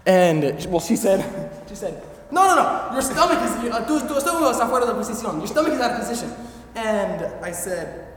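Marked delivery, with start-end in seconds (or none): 2.3-6.3 higher, lightly voiced old lady insisting; old señora correcting him; hammed-up insistent healer.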